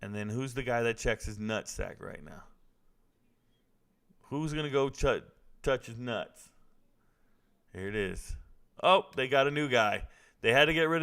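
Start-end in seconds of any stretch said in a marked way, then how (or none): none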